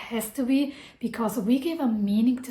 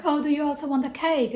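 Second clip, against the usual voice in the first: higher, sing-song offer; a hint of a doting mother; imitating mom; 5 semitones higher, faster than usual. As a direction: mimic mom offering cake. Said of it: "she's like".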